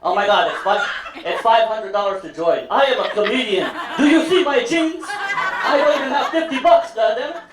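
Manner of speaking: high, laughing valley girl imitation; whiny high girl, hammed up; white girl voice. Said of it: "Again, white girl".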